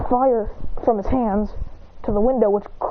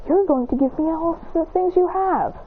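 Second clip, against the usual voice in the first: higher-pitched mock threat; acted demand; 6 semitones higher than usual. Holding him by the shirt, acted demand.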